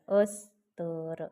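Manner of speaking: अस्तर drawn out very slowly as ass-tarr; teacher's stretched repeat of the answer; slow emphatic repeat. Shown as a demonstration. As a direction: stretch the answer word so it sinks in. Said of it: "पहिल्यांदा काय येणार?".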